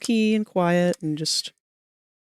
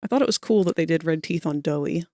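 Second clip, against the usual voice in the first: slipping into a Boston accent; casual Boston accent creeping in. Real, not acted. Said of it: "this Boston accent keeps coming from".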